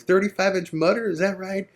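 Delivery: high, friendly rocker voice; friendly rock star. Retold or imitated. A rock musician asking the band what they're up to, high voice.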